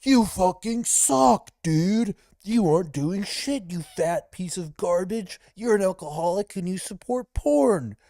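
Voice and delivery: high-pitched, drawn-out mocking rant; hammed-up high-voiced parody of a tough-guy tirade; mock Instagram ranter. Streamer imitating the shirtless camera blueprint, mock ranting. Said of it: "and be like".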